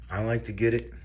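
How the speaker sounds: talking while chewing gum. Real, not acted. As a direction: gum smacking between words. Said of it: "Sorry for the gum smacking".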